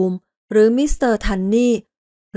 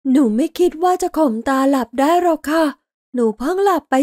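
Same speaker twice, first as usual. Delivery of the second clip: put-on a girl pulling herself together; little girl after crying; 6 semitones higher than usual. A narrator's reading. Dinah asks Laurel after crying, high child voice.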